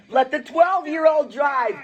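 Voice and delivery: eager inner voice, pitched high. Acted. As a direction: pitch it up as the voice that drowns the other out. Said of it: "an even louder little voice".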